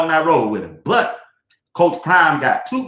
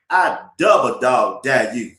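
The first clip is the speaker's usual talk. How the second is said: low, slow drawn-out dare; lightly voicing grandma's warning; grandmama's dare; 4 semitones lower than usual. Grandson quoting grandmama's dare, slow and low. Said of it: "Hey, Arthur Blank".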